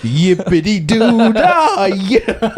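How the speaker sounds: slow, sing-song fake cheer; mock cheerful. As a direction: stretch it out like a cartoon optimist. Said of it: "be like".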